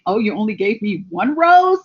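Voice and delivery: hammed-up pouty girlfriend; sulky girlfriend let down by one rose; ungrateful girlfriend. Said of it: "being like that ungrateful girlfriend".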